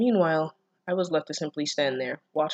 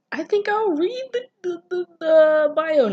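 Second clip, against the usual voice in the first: embarrassed laughing; 13 semitones higher, 8 dB louder than usual. Real, not acted. Embarrassed laugh at own mistake.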